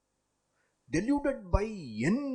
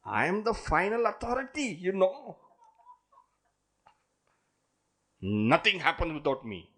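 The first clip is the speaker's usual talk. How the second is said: boastful rich man; 3 semitones higher than usual. Acted. Boastful person voiced in lesson.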